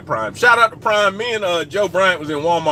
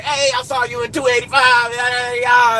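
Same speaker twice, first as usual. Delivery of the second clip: imitating the fan; 7 semitones higher than usual. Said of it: "he was like".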